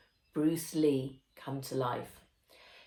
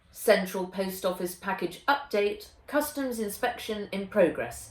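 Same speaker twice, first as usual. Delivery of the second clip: robot announcement; 4 semitones higher than usual. Acted. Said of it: "he announced".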